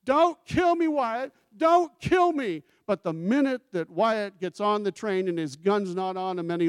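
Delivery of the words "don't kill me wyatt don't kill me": high, loud terrified pleading; imitating Ike Clanton begging. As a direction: squeal out a plea for mercy. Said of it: "I hear what Ike Clanton is saying".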